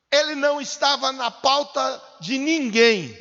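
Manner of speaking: loud, high proclamation; preacher's ringing declaration; forceful preaching. Real, not acted. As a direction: declare it boldly to the congregation.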